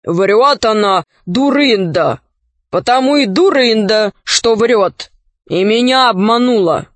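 hollow, booming as if from a barrel. Acted. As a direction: boom it from inside a helmet. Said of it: "голос доносился, как из бочки".

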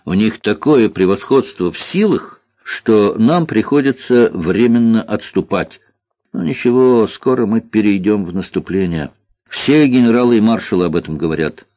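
lightly voiced boy, earnest and emphatic; маленький лётчик. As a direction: explain it like a convinced young pilot. Маленький лётчик объясняет отступление. (убеждённый мальчишка-лётчик)

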